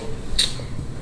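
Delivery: sudden airy laugh; breathy burst of laughter. Real, not acted. Laughing at funny guy's line.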